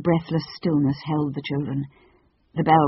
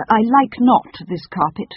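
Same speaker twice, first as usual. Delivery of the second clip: slow, higher, stately bird voice; haughty Phoenix; 7 semitones higher, 5 dB louder than usual. Acted. Phoenix complaining about the new carpet, haughty. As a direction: complain with grand disdain.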